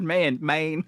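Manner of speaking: "Maine" said high and loud, vowel opened toward "mine"; Southern Black pronunciation. Shown as a demonstration. Explaining to co-host how Southerners say "man", "Maine" in Southern Black pronunciation. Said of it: "how Southern black people say the word".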